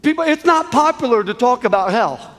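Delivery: insistent pulpit delivery, building; impassioned preaching. Real, not acted. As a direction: press the hard truth on the congregation. Preaches hard truth with force.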